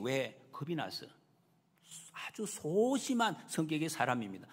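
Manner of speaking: normal talking voice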